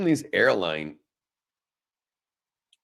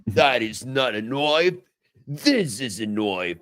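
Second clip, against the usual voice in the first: mock Australian accent; slower than usual. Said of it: "That's all I know".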